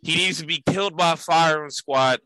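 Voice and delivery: deadpan Italian-American tough-guy praise; Italian-American wiseguy. Acted. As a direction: gush then curse in an Italian-American accent. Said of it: "No change in tone".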